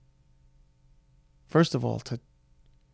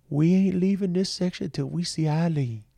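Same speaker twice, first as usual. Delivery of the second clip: put-on a light street New York accent, pitched up a little; homeless man's accent; 5 semitones higher than usual. Homeless man insisting he'll wait for Eileen, light New York accent. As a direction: lightly voice the shelter guy's New York twang. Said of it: "I don't know what accent that was".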